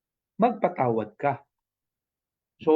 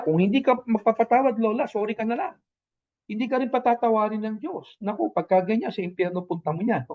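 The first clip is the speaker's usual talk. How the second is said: mock harsh warning; 4 semitones higher than usual. Shown as a demonstration. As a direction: lightly ham up a preachy scolding. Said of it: "Huwag mo sasabihin sa kanya".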